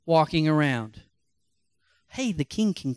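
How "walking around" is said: slow, drawn-out cry of astonishment; astonished shout. Acted. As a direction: stretch it out, amazed at what he sees. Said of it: "Nebuchadnezzar shouted".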